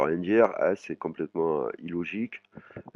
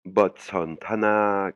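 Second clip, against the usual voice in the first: slow; 3 semitones higher, much slower than usual. Shown as a demonstration. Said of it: "qui veut dire le dialogue".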